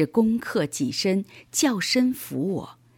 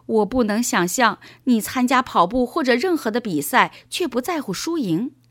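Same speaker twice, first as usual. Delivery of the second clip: put-on higher-pitched, animated boy's voice; puzzled young boy; 4 semitones higher than usual. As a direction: protest to dad in boyish disbelief. Narrator voices boy Paul puzzled. (小男孩高声表示不解)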